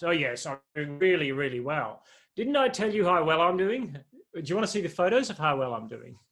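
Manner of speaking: a hammed-up show-off insisting all is well; mock boastful bragging. Preacher mimicking a bluffer showing off, smug boastful. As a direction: brag like someone hiding their struggle.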